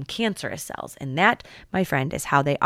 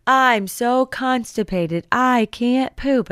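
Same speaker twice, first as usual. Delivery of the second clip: slow, mock-whining complaint; lightly hammed-up constipated person moaning; whiny constipated patient; 5 semitones higher, much slower than usual. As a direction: drag out the complaint like a miserable patient. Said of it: "we're like".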